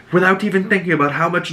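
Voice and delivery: mother chiding her son about the books; lightly voiced Alicent.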